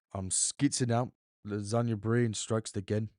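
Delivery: attempted Geordie accent, not convincing. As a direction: try a Geordie accent and miss. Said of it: "I tried to do a Geordie accent then".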